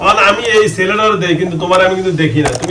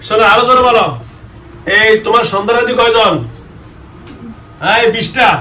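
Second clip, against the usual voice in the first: yelling across the room; 3 semitones higher than usual. Real, not acted. Exorcist demanding louder answer.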